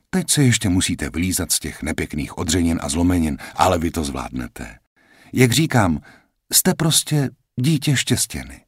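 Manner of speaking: lehce naznačená sestřička, vyšším hlasem; lightly voiced nurse. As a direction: hraj vlídnou sestřičku, trochu výš. Nurse character voice. (sestřička vysvětluje Jackovi, kde je, mírně vyšším hlasem)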